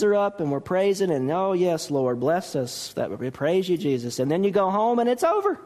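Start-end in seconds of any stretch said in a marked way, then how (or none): 1.3-4.2 mock pious praise. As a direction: parody a showy Sunday worshipper. Mocking showy Sunday praise.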